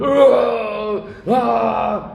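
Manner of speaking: imitating drawn-out cries of pain from behind a wall; screams of pain. Patient heard screaming in the emergency room, mock cries. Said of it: "escutava uns gritos lá dentro".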